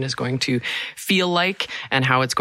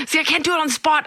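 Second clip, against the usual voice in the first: high, laughing through words; giggling while speaking; 11 semitones higher, faster than usual. Real, not acted. Laughing through failed impression.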